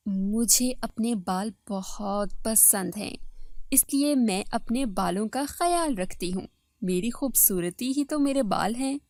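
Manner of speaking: self-satisfied second wife. Acted. Second wife boasting of her hair to the first, self-satisfied. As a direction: dwell proudly on your own beauty.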